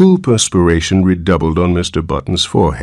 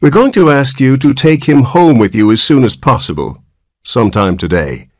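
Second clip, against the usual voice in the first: severe; 5 semitones higher than usual. Acted. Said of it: "said the nurse severely".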